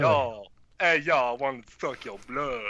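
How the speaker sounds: casual "yo" vampire, lightly voiced; a bro vampire, barely acted, breezy; street-style vampire. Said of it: "a vampiric theme going".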